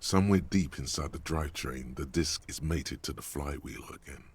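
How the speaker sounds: measured scene setting; game master narration. A narrator's reading. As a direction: describe the cabin to the players.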